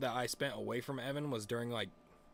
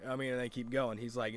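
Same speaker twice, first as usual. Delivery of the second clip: normal talking voice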